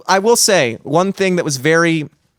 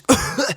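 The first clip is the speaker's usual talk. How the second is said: mock uncontrollable coughing; acted-out tear gas cough; imitated coughing fit; 10 semitones higher than usual. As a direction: hack out a pretend coughing fit. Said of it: "just, like, uncontrollably coughing".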